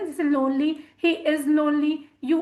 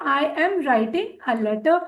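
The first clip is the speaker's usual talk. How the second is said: slow, careful dictation pace; slow model sentence; much slower than usual. Shown as a demonstration. Teacher models the sentence slowly for students. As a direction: spell it out slowly for learners. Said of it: "teacher models example sentence".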